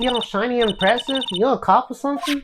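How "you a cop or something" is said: a touch of Southern country woman; Southern accent. Acted. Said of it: "It's kinda hard talking to Southern accent".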